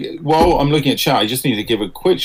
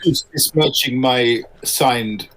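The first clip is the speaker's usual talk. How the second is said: mock Hungarian outrage. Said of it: "a middle-aged Hungarian".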